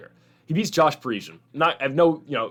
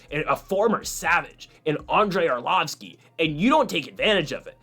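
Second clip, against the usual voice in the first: a hint of a podcast host making a point; half-hearted imitation of a fight commentator lecturing; Joe Rogan impression; 3 semitones higher than usual. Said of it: "I'll try to do my best Joe Rogan impression here".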